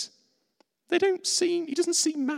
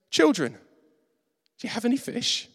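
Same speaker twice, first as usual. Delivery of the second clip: calling out; 7 semitones higher, slower than usual. Retold or imitated. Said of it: "the voice goes".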